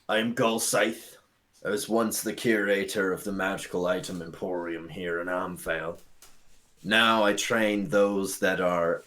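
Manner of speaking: a hint of a solemn old elf; lightly voiced old elf. GM speaks as elf introducing himself.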